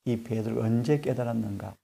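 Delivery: ordinary talk, nothing marked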